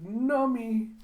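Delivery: put-on gleeful baby talk; childish yum. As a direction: coo it like a greedy child. Scientist relishing pudding.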